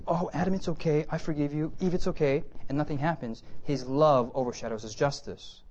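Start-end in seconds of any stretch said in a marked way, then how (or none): 0.1-2.4 mock gentle forgiveness. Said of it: "But if God says".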